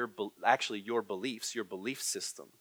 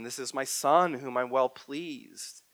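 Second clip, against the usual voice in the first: slow, solemn quote of God; measured, reverent divine words; God's voice at the baptism; 2 semitones higher, 4 dB louder, slower than usual. Acted. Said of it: "what God speaks over Jesus at his baptism".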